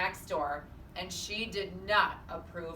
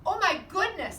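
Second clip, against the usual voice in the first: much higher and louder, astonished; amazed exclamation; 11 semitones higher, 8 dB louder than usual. A narrator's reading. Mr Watson watching the piglet eat, loud and amazed. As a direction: gasp it out in wonder.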